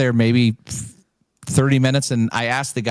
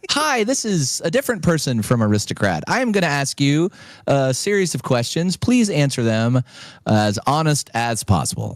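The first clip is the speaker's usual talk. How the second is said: higher, prim businesslike voice; official caller lady; 4 semitones higher than usual. Retold or imitated. Caller from Aristocrat questions the winner, prim official. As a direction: read it like a formal call-centre script.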